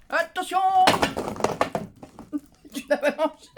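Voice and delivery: giggling question; laughing. Real, not acted. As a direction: laugh through the words. Laughing at the dog.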